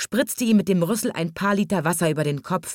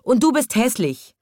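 higher-pitched cross jibe; hint at a whinny while insulting; lightly neighed insult; 7 semitones higher, 4 dB louder than usual. A narrator's reading. Hippo insulting the rhinoceros, lightly whinnying. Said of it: "wieherte das Nilpferd".

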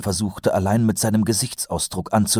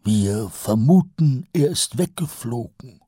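higher, nasal-free eager sergeant voice; Kolon's voice; 6 semitones higher than usual. A narrator's reading. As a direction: play the chatty old sergeant, pitched up. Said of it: "erklang Kolons Stimme". (höher gesprochener Feldwebel Kolon)

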